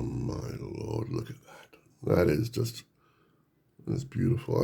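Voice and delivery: soft breathless whisper of wonder; hushed, almost reverent; awed whisper. Real, not acted. Awed by the old artwork.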